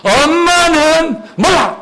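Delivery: high, drawn-out mock sulk; curt, sulky retort. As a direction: brush mom off like a huffy kid. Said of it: "민준이가 퉁명스럽게".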